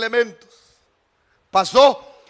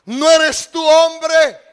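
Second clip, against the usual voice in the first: slow reproach; 5 semitones higher, 5 dB louder, much slower than usual. Acted. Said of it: "Y le dijo a David".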